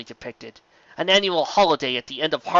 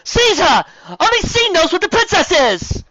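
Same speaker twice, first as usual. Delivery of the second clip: much higher, loud commanding bellow; 9 dB louder than usual. A narrator's reading. The mayor orders the guards, loud commanding bellow. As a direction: order the guards with full force. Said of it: "bellowing at the top of her lungs".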